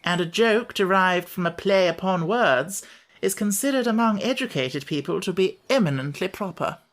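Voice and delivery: a lightly voiced, self-important lecturing bug; pompous Wogglebug. Wogglebug explaining puns to his friends, lightly pompous.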